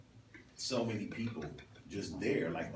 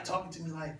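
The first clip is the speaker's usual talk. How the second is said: ordinary delivery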